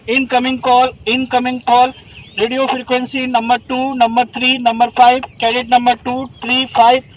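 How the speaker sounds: slow, deliberate radio codes; radio code call. Shown as a demonstration. Trainer teaching radio codes to cadets, deliberate call-out. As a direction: read the codes like on air. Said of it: "सबसे पहला आता है नंबर वन".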